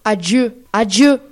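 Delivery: loud dramatic farewell; crying out. Acted. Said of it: "il se redressa et cria".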